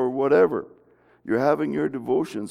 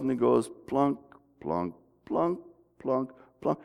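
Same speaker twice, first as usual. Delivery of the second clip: slowed plunking; 4 dB quieter than usual. Shown as a demonstration. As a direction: mimic a slowed-down recording note by note. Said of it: "I can slow it down and stretch it out".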